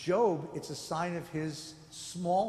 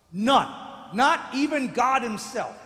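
emphatic none; 3 semitones higher, 9 dB louder than usual. Real, not acted. Emphatic punchline on justice.

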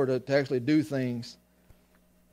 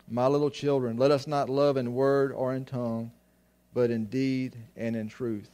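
scripture reading. Acted. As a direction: read the verses out with weight, like from the pulpit. Reads the scripture passage.

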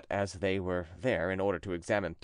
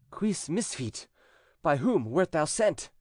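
stern, higher priest voice; exorcist priest; 7 semitones higher, slower than usual. A narrator's reading. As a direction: question the demon with solemn authority. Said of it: "he asked the following questions".

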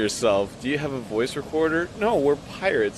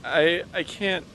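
holding back tears. Acted. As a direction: voice close to tears. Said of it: "You sound like you're gonna cry".

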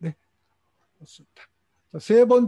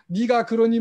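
mock gentle question; 5 semitones higher, 5 dB louder than usual. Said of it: "긴급한데 뭐".

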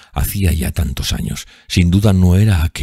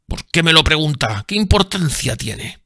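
lightly voiced puzzled sailor; 13 semitones higher than usual. A narrator's reading. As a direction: ask why, bewildered.

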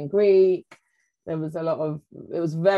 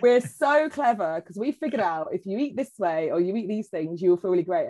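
mock excited discovery; 3 dB louder than usual. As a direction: announce it like a smug breakthrough. Mocking proud modern discoverers to ancestors.

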